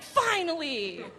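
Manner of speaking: high, hammed-up cheer; high-pitched mock-heroic celebration; exultant relief. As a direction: cry out as if finally set free. Acted cheer at freestyle's arrival.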